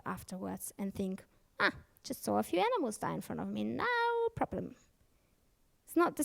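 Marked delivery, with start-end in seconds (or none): 1.6-4.7 mock nonchalance. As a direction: shrug it off as a mock casual aside. Mock quote of a carefree reaction.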